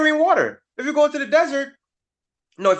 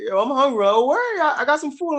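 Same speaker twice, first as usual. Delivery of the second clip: buddy voice; 7 semitones higher than usual. Retold or imitated. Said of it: "be like".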